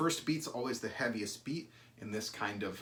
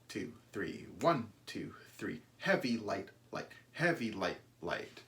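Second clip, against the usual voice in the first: three feel counted with the first beat leaned on; counting in three; 3 semitones lower than usual. Shown as a demonstration. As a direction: count one two three with a weight on one. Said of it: "you want to get this really, uh, clean three feel".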